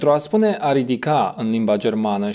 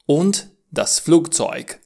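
und das Flugzeug, slowed and clear; slow teaching model; 3 semitones higher than usual. Shown as a demonstration. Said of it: "Das Gepäck".

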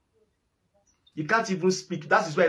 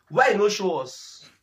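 slow taunt; slower than usual. Real, not acted.

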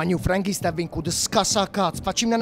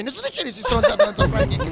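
parole spezzate da risate, voce molto più alta; ridendo. Real, not acted. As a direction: ride mentre parla. Ride mentre parla. (ridendo, voce acuta)

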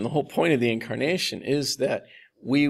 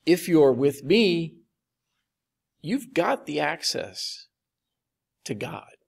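reassuring; 3 semitones higher, slower than usual. Retold or imitated. Jesus offering disciples access to God, reassuring. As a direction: reassure slowly, phrase by phrase. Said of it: "hear that is as a reassurance".

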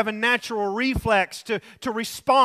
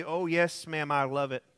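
very polite; 6 semitones lower, 6 dB quieter than usual. Retold or imitated. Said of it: "replied very politely".

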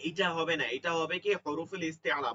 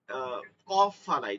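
throat clearing demo; 4 semitones lower than usual. Shown as a demonstration. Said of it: "একটা আওয়াজ করি না".

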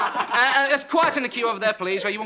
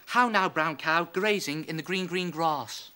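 posh voice; 5 semitones lower, 3 dB quieter, slower than usual. Shown as a demonstration. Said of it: "put on a posh voice and say".

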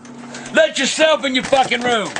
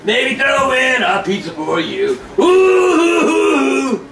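slow taunting yell; much slower than usual. Real, not acted. Drunk mock serenade, taunting.

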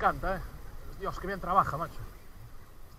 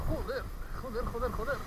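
tense muttered curses, soft; cursing under breath; 6 dB quieter than usual. Real, not acted. Pelea tensa con el pez. (maldiciendo entre dientes)

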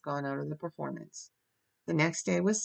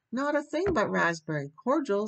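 higher, plaintive protest; mock sob; 6 semitones higher, 3 dB louder than usual. A narrator's reading. Anne defending herself to Marilla, tearfully plaintive. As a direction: plead tearfully, lightly acted. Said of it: "sobbed Anne".

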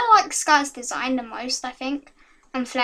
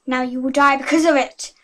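threat; 5 dB louder than usual. Acted. Villain threatens in story.

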